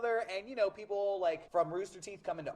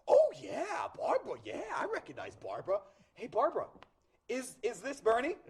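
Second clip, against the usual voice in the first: put-on thick Boston accent; 3 semitones higher than usual. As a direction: imitate a Boston kid recognising someone. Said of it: "talks with a thick Boston accent".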